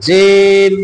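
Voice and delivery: "জিম" with the tongue's middle pressed firmly to the palate; firm-pressed jim. Shown as a demonstration. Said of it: "শক্ত ভাবে মিলাইয়ে".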